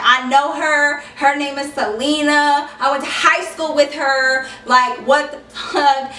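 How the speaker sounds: annoyed. Retold or imitated. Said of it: "I was really annoyed".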